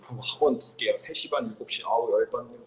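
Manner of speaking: low, soft grumble to oneself; muttered grumbling. Acted. Child alone complaining about academy schedule, muttered grumbling. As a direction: grumble under your breath. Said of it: "혼자 조금 불불거려요".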